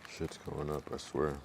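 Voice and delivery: talking through a mouthful of bread; chewing while speaking; mouth full. Real, not acted. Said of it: "Sorry, I'm eating bread".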